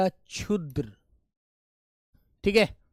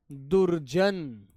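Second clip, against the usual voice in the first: drawn-out answer; 5 semitones lower, much slower than usual. Shown as a demonstration. Teacher drawing out answer.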